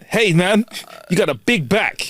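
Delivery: slow, drawn-out catcall, lightly voiced. Host imitating the stranger catcalling him in the shop. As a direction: call it across the shop like a wolf whistle. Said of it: "catcalled like that".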